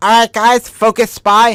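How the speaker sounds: put-on high, loud little kid voice.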